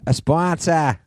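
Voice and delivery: high-pitched mock Boston accent; hammed-up Boston "sponsor", climbing. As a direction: announce it as an excited Bostonian.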